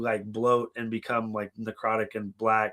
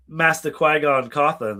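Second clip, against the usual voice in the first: mock Qui-Gon voice; 4 dB louder than usual. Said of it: "I say".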